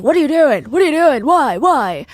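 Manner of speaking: high, loud mock-panicked pleading; mimicked panicked victim. Narrator voicing killer's imitation of stabbed man, mock panic. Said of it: "He was panicking at first in his old man voice".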